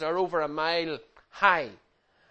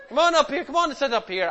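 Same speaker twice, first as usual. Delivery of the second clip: laughing call; 8 semitones higher, 4 dB louder, faster than usual. Real, not acted. Coaxing kids up front, laughing.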